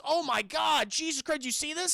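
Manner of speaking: high, loud mock astonishment; shocked kid. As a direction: exclaim it high, hammed-up shock. Kid spots the police outlines.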